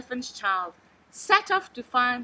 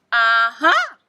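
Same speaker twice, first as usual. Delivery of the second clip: triumphant aha; 10 dB louder than usual. A narrator's reading. Snake triumphant.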